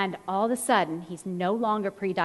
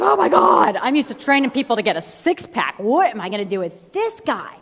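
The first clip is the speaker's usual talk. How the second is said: shocked exclamation; 6 dB louder than usual. Retold or imitated. Her shocked reaction to client.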